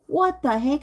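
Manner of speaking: high, startled what the heck; jumping up in pitch at the news; shocked outburst. Retold or imitated. Told she's fired.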